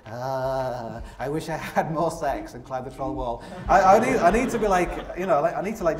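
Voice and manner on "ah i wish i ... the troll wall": put-on old man regretting. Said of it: "a really old man, like, saying".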